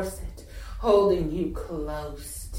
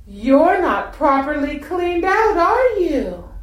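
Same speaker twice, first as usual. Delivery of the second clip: mock scolding; 8 semitones higher, 5 dB louder than usual.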